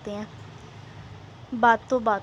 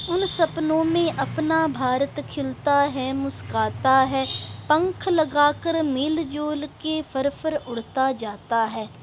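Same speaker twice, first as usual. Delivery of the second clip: rhythmic verse with drawn-out line endings; poem recitation; 2 semitones higher than usual. Acted. Teacher reading a verse about India's dreams, measured recitation.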